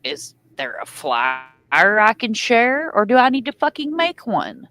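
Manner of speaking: sarcastic slow question. Retold or imitated. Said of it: "I'm like".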